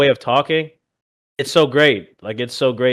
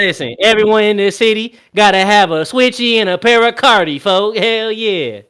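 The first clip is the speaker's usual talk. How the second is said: higher Milwaukee slang voice; Milwaukee accent; 6 semitones higher than usual. Pretend. Showing friends the Milwaukee accent, higher pitched. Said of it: "your Milwaukee voice".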